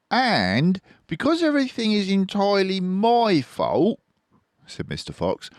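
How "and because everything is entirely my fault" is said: much higher, louder grand fox; generous Fox voice. A narrator's reading. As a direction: invite them grandly.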